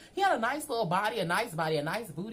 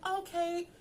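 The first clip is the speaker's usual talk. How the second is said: mock eager; 8 semitones higher, 7 dB louder, much slower than usual.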